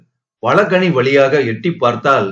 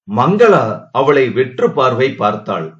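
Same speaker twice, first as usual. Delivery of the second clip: ordinary delivery, nothing marked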